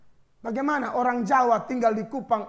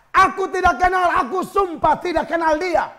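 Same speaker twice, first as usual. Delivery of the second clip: Peter swearing; 6 semitones higher, 5 dB louder than usual. Acted. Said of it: "Petrus sumpah".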